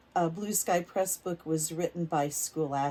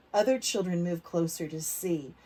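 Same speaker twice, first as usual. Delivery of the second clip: put-on reading to children; 4 dB louder, slower than usual. A narrator's reading. Teacher reading a picture book aloud to kids. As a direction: lively, clear storybook reading for little ones.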